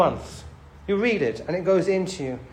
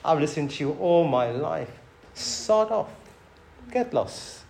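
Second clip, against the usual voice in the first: dismissive brush-off; 3 semitones lower, 8 dB quieter than usual. Shown as a demonstration. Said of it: "you can hear that voice and you can say".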